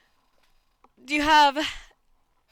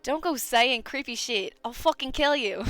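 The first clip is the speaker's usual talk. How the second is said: put-on indignant questioning in an amateur Australian accent; 3 semitones higher than usual. Game character challenging a creep who smiles, Australian accent. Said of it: "with the characters just as my normal talking voice".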